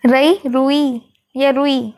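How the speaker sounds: रुई said slowly, choice between short and long रु; slow comparison. Shown as a demonstration. Teacher slowly weighing रुई spellings aloud. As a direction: draw out each option of रुई slowly. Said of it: "जल्दी बोलते हैं ना".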